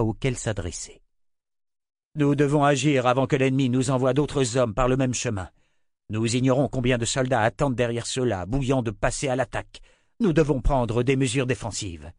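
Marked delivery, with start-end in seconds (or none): 2.1-12.1 higher, louder soldier's report; lightly voiced urgent general; urgent officer. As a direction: press for defence as a worried officer.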